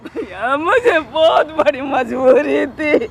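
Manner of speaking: slow, wailing excuse; drawn-out, anguished pleading; distressed plea. Real, not acted. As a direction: plead helplessly, dragging out the words. Mother pleading her excuse.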